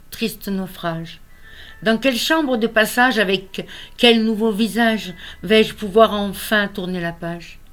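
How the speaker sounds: measured lament, lifted openings and falling line ends; poetry recital. Acted. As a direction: recite a poem of lost love with pauses. Reads third poem of lost love. (poème déclamé, posé)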